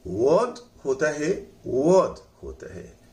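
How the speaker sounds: "वर्ड" with the R left silent. Shown as a demonstration. Teacher shows students the silent letter, "वर्ड" with R dropped. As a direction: say "वर्ड" with a long vowel and no R. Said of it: "इसमें आर silent है".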